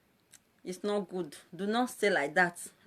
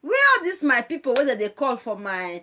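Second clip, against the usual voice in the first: mock lament; 4 dB louder than usual. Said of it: "Don't say".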